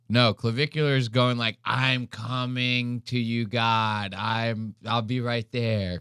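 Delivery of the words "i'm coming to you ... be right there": slow, lightly voiced fading away; imitated dying man. Streamer voicing Clavicular going to the light, mock dying. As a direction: drift slowly toward the light, mock dying. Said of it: "Clavicular's going to the light".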